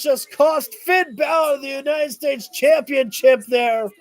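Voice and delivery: real outrage at the interference, shouted; outraged shout. Real, not acted. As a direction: yell it out, disgusted by the cheating. Cheating costs Balor the title.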